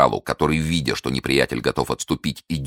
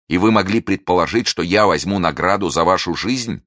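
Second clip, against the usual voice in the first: louder, offended protest; loud wounded protest; indignant; 3 semitones higher, 5 dB louder than usual. Acted. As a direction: push back hard against her words.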